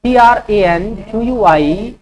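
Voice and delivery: slow letter-by-letter dictation; slow spelling dictation; spelling out slowly. Shown as a demonstration. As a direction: spell each letter clearly for students. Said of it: "ट्रैंक्विलिटी का spelling होता है".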